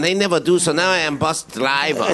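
lightly put-on Asian accent; mock Asian accent, broken English. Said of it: "you lost your Asian accent halfway through there".

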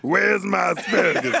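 laughing mock shout; a hammed-up yelled demand. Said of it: "Oh, wait, I'm sorry".

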